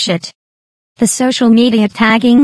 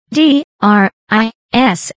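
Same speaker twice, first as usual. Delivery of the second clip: slow spelling; slower than usual. Shown as a demonstration. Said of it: "My last name is spelled".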